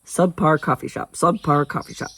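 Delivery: quick tongue-twister repeat of SUBPAR COFFEE SHOP; brisk, run-together repeats; fast. Shown as a demonstration. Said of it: "I guess I can say it fast".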